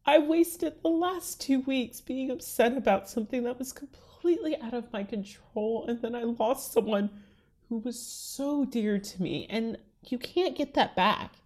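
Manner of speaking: real tears held back, half whispered at first; fighting back tears. Real, not acted. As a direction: speak through tears you are trying to hold in. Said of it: "sorry, I'm trying not to cry".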